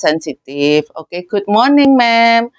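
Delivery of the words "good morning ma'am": gentle greeting. Shown as a demonstration. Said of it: "Nadanya yang lembut".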